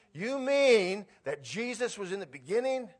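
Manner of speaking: high, loud, wide-eyed disbelief; excited reader finding Jesus in scripture; amazed question. Pretend. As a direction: gasp it out as a discovery.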